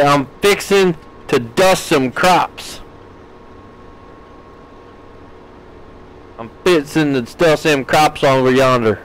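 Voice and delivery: lightly put-on Southwestern drawl; mock Southwestern drawl. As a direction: ham up a Southwestern farmer accent lightly. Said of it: "a Southwestern drawl".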